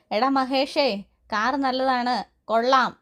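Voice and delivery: calling out in mock volume to show off; mock loud call. Sachi calls out to Mahesh so neighbours hear, mock loud. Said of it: "ഞാൻ ഉച്ചത്തിൽ പറഞ്ഞേക്കാം".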